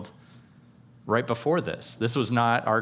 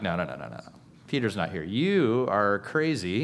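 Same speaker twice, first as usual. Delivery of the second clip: doubting disciples; 3 semitones lower than usual. Retold or imitated. Disciples dismissing the servant girl, low scoffing. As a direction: wave her off low and flat-out disbelieving. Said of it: "And they're like".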